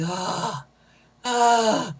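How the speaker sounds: mock moans of pleasure; imitated pleasure moan. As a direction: breathe out two put-on "ah" moans. Imitating man receiving oral sex.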